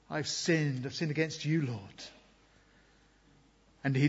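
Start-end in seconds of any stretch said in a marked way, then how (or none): 0.1-2.0 softer, a hushed confession of sin; mild penitent sorrow. Acted. Preacher voicing David's psalm to the Lord, softly penitent. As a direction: let it sink down in quiet regret. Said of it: "deep sorrow and penitence".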